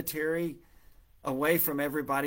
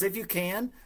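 high, questioning "If you can"; incredulous echo; 6 semitones higher than usual. Retold or imitated. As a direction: throw the words back in disbelief. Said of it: "it's as if he's saying".

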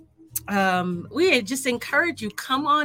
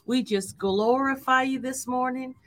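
prayer. Acted. Leads an opening prayer.

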